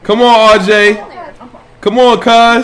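high, loud encouraging calls; excited cheering. Real, not acted. Dad cheering his toddler to walk, excited encouragement.

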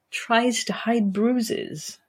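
a hint of a whisper, slowed down; mild whisper. A narrator's reading. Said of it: "she whispered".

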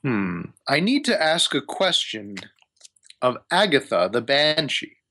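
lightly voiced wizard with deliberate pauses; wizard asking a favor. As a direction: ease into a delicate request as a wizard. GM voices wizard Hamun Kost.

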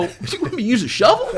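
can't hold the laugh back on the punchline. Real, not acted. Laughing while retelling his comeback.

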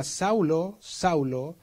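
a voice from heaven calling Saul; voice of Jesus. Retold or imitated. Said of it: "oyó una voz que le decía".

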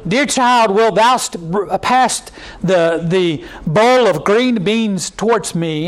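lightly hammed-up archaic table talk, slow on the end; mock King James English. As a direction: play a stiff old-fashioned dinner request. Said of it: "speak like that in King James English".

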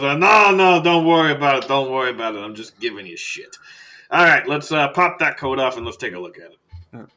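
loud, high start that eases off; hearty doctor. Acted. Doctor telling embarrassed patient not to worry, hearty. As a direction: wave it away breezily. Doctor reassures after teasing.

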